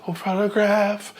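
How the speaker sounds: high sung word breaking shakily; shaky voice. Shown as a demonstration. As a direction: let the voice crack and wobble. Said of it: "break at the end like that and start getting shaky".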